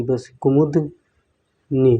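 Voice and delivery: कुमुदनी said very slowly, syllable by syllable; dragged-out careful spelling. Shown as a demonstration. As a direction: stretch कुमुदनी out while writing it. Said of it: "दा के ऊपर छोटी की मात्रा".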